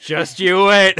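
put-on creaky old man voice, laughing; whiny nasal old person. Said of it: "your old man voice".

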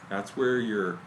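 talking around pipe stem; pipe in mouth. Real, not acted. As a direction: lips clenched on pipe. Seen 3: Pipe stem held between lips throughout; out at -1.0.

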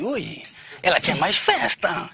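slow, soft, knowing; a slow sly murmur; sly slow aside. Retold or imitated. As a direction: savour it like a sly suitor. Teller voices his own thought.

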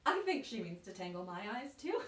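laughing, quick incredulous aside; amused disbelief. Acted. Realizing she is smitten with me, laughing disbelief. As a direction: laugh at the absurdity as you say it.

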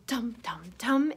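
mouthed drum beats, soft at first; bass drum thumps. Pretend. Reader imitates the fly's bass drum, mouthed thumps. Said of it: "thumped his bass drum".

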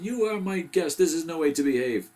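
loud, high-pitched scolding; crying out in protest. A narrator's reading. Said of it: "cried Owl".

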